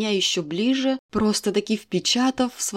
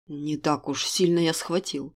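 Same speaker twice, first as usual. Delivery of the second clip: doubtful; 5 semitones lower, 3 dB quieter than usual. Acted. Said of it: "с изрядной долей сомнений".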